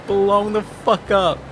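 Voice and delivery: slow, mournful big man lament; drawn-out mock grief over clothes; big guy voice. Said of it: "is Seven like".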